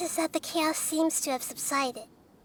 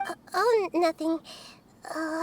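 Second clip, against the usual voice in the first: stumbling, caught off guard; flustered stammer. Acted. Nahida covering her unease for friends, flustered stammer. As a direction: brush it off while tripping over the words. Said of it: "What's wrong, Nahida?".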